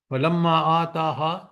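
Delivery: slow, measured Arabic recitation; Quranic recitation. Shown as a demonstration. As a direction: recite the verse slowly. Reciting Quran verse in lesson. (آہستہ قرآنی تلاوت)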